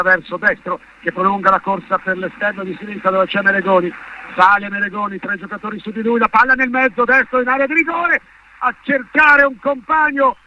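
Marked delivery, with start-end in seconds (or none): 4.4-10.4 building excitement, pitch climbing; rising live commentary. Real, not acted. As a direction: call the attack faster and higher.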